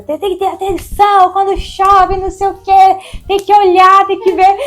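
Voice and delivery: high, loud mock telling-off; imitating a scolding cop. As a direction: scold her like the policeman did. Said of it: "brigou comigo horrores".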